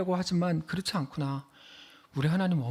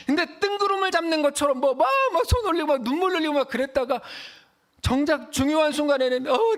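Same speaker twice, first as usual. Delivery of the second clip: fervent preaching; 8 semitones higher, 4 dB louder than usual. Real, not acted. Preacher builds to a climax.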